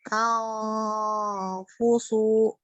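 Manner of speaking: nose held shut longer; pinching nose. Shown as a demonstration. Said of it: "buka tutup, lebih lama ketika nutup".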